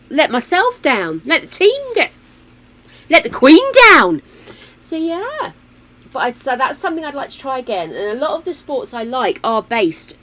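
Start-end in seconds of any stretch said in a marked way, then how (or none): 0.1-4.2 mock drama. Mock escalating guilt.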